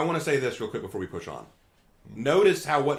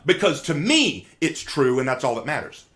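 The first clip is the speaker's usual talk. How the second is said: grandstand to the jury; honeyed southern lawyer drawl; 4 dB louder than usual. Acted. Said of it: "Let's say that I'm a lawyer".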